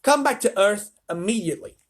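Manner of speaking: high, loud demand; yelling president. A narrator's reading. The president yells at the astronauts over radio, high and loud. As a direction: bark at the astronauts.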